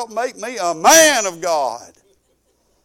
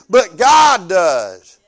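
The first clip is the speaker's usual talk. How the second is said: emphatic shout; 9 dB louder, much slower than usual. Retold or imitated. Preacher answering the grieving girl.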